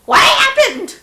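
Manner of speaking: high, baffled "what happened?"; startled confusion. Retold or imitated. Stuck rider asking the crowd, high startled question. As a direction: pop it out high in surprise. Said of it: "I'm just like".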